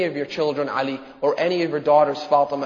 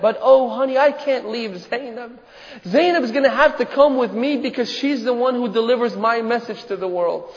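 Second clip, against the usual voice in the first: anguished father's refusal; 6 semitones higher than usual. Acted. Father answering the pleading daughter.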